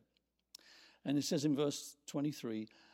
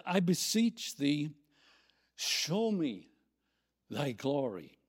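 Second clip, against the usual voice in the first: louder, slowed, emphatic request; bold plea; 6 dB louder, slower than usual. Acted. Moses making his request of the Lord, bold plea. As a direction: beseech boldly, pausing between phrases. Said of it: "Very bold".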